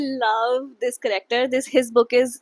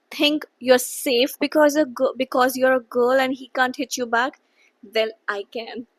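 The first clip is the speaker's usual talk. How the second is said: read-aloud threat; 5 dB louder than usual. Retold or imitated. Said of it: "She's saying".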